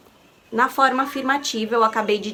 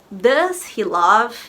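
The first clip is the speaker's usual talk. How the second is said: slow modelling; much slower than usual. Shown as a demonstration. Teacher modelling an English question for students, slow and clear. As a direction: Do you love spoken very slowly and clearly. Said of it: "teacher modelling English question".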